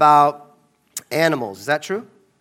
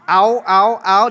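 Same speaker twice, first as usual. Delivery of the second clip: imitating a seal's repeated barks; 4 dB louder, slower than usual. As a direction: bark it out like a seal. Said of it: "And the seal goes".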